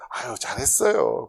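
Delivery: mild, dutiful well-done at normal volume; lukewarm praise. Acted. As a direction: praise them politely without meaning it fully. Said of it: "한 육십 점 되면".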